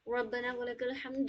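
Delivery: slow measured recitation; recitation demo. Shown as a demonstration. Teacher slowly recites for students. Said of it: "پھر وہاں پہ رک جانا ہے ہمیں".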